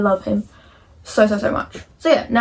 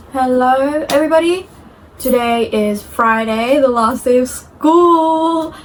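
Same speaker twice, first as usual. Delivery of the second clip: slow excited announcement; 2 semitones higher, 4 dB louder, slower than usual. Real, not acted. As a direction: stretch it out like big news. Announcing last day of school.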